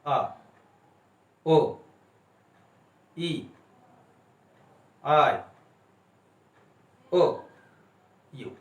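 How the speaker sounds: each vowel sounded alone, with pauses between; separate, evenly held vowel sounds; vowel demonstration. Shown as a demonstration. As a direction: model pure vowels one by one. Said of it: "आप कोशिश करके देख लीजिए".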